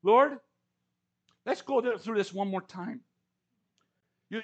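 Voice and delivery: a hint of a prophet pretending he misheard; Elijah pleading. Elijah begging God to repeat his orders, mock bewildered. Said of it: "I can almost hear Elijah's voice saying".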